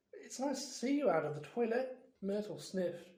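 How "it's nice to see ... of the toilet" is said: falsely bright. Acted. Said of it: "in a falsely bright voice".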